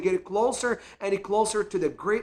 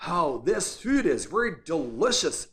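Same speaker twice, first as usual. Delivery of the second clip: swooping, overdone stress on de-LI-cious in "delicious"; exaggerated pronunciation; 2 semitones lower than usual. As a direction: imitate a friend overdoing "delicious" as a gentle hint. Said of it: "exaggerated when he pronounced it again".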